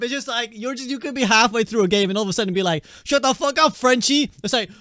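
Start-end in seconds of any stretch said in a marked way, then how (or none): 3.0-4.3 raised-pitch retold insult; imitating an irate player, higher-pitched; mock angry outburst. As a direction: act out a sudden in-game squabble. Acted in-game nationality quarrel.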